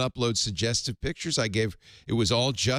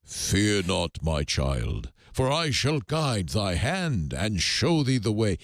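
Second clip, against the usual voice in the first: lower, slow and solemn divine reply; mock voice of God; 3 semitones lower, slower than usual. The Lord answering the troubled man, mock solemn. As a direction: soothe him like a benevolent deity. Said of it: "so I'll do the accent of God".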